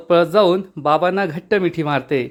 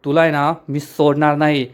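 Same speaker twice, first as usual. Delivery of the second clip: slow, heavy threat with a changed voice; retold angry threat, slowed down; mock angry warning. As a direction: lean into a slow menacing warning. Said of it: "राजा खूप चिडतो आणि म्हणतो".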